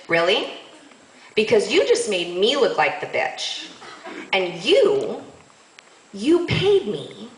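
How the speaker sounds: slow, emphatic acted indignation; pissed off. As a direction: imitate angry disbelief, spacing out each accusation. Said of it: "now I'm pissed".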